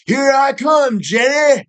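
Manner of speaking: very high, shouted hammed-up prince call; mock heroic shout. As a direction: yell it like a cartoon prince charging in. Prince calling out to Jenny.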